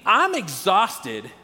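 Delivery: spoken very slowly, "I'm exhausted" stretched out; slowly stated. Shown as a demonstration. Pastor naming the universal feeling to the congregation, very slowly. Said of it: "is a universal feeling".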